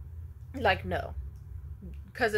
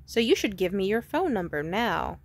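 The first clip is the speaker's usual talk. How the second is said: pushy stranger; 5 dB louder than usual. Retold or imitated. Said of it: "and then said".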